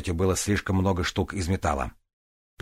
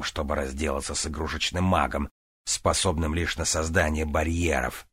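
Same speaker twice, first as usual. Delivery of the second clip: low villain voice; 3 semitones lower than usual. Acted. Relos Var voiced in fight.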